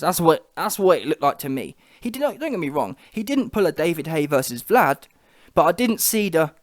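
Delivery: usual speaking voice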